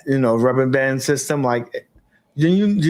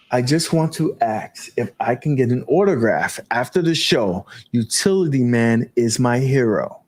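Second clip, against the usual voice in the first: professional voice; 3 semitones lower than usual. Shown as a demonstration. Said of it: "I gotta read this in my professional voice".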